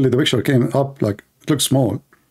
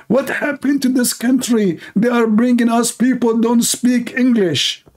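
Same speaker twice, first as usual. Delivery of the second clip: put-on Texas cowboy accent; 9 semitones higher than usual. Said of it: "like, cowboy accent".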